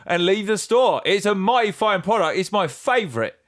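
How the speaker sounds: high, twangy mock country stranger. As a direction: keep up the wide-eyed folksy customer. Continuing folksy customer character.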